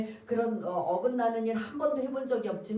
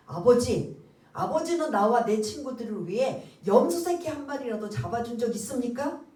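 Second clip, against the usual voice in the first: louder, indignant demands of a wronged son; angry protest; 3 semitones higher, 4 dB louder than usual. Retold or imitated. Elder son confronting his father, indignant and loud. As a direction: confront the father, voice rising in grievance. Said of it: "아버지한테 막 따지는 거예요".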